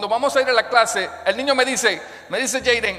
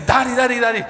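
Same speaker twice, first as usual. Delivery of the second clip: put-on eager kid calling his dad; excited child; 3 semitones higher than usual. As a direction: bounce with a boy's excitement. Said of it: "Y él estaba súper emocionado".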